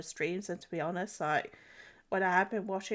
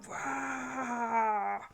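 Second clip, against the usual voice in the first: mock rage roar; 5 semitones higher than usual. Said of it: "Like I do in the car".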